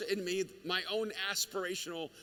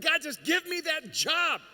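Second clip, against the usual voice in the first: pleading prayer; 8 semitones higher, 5 dB louder, slower than usual. Retold or imitated. Imitating a prayer for a job.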